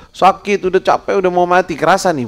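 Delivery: high, loud, weary groan of a dying rich man. Retold or imitated. Preacher voicing the dying rich man, high and weary. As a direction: play the exhausted rich man near death.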